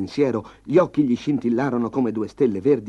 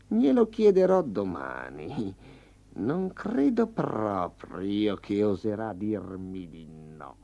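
growled threat; slower than usual. Acted. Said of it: "ringhiò Tigre".

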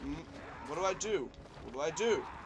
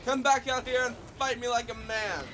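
mock challenge; 4 semitones higher, 5 dB louder than usual. Challenge to fleeing game enemies.

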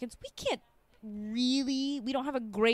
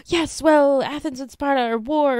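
mock epic movie line; 6 semitones higher, 10 dB louder than usual. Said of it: "you'll get some sort of fantastical".

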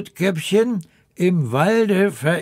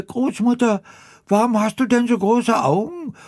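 put-on much higher, quick childlike question; little girl voice; 9 semitones higher, faster than usual. Rotkäppchen asks the disguised grandmother, high and childlike. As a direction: ask like a wide-eyed little girl.

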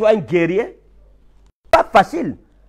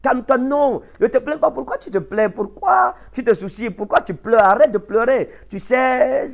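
higher-pitched voice of well-meaning friends; pleading, higher-pitched mock consolation; mimicked comforters; 4 semitones higher than usual. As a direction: lightly mimic people telling the bereaved not to cry. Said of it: "les gens vous écrivent et vous disent".

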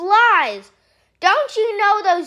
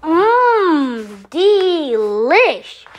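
loud satisfied yum; loud pleased mmm; savoring; 3 dB louder, much slower than usual. Acted. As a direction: relish the taste. Savoring the fly snack.

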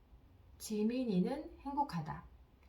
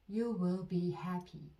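very slow, each word spaced out for repeating; dictation-slow teacher read; slow model sentence; much slower than usual. Shown as a demonstration. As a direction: say it slowly so learners can follow. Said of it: "듣고 따라해 보세요".

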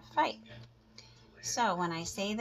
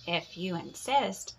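sweetly; 3 dB louder than usual. Acted. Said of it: "answered the friendly ladybug sweetly".

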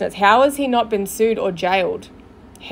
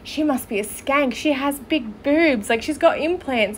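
hushed mock gossip; 4 dB quieter than usual. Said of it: "all these people are gonna be like".

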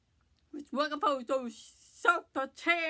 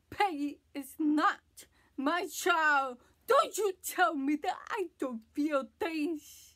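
firm, emphatic protest with louder stressed words; hurt defiance; 3 dB louder than usual. Acted. Speaker defends own feelings to an accuser, hurt defiance. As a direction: push back, wounded but controlled. Acted confession, rebuffing an accusation.

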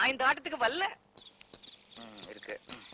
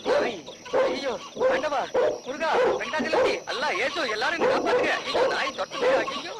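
frantic terrified yelling, much higher and louder; panicked screaming; 12 semitones higher, 4 dB louder than usual. Acted. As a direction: scream for every god as the dog bites. Chased by dog, screaming for gods. (நாய் துரத்தும்போது பயந்து கத்தும் அலறல்)

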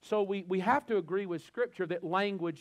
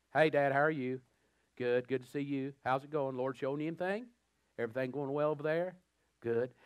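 put-on a light Southern country accent, lower; 3 semitones lower than usual. Son chatting with his dad on the phone, light Southern country accent. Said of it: "you go country".

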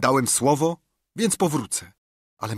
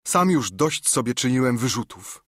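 tearful pleading; 5 semitones higher, 4 dB louder than usual. A narrator's reading. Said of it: "zacząłem płakać".

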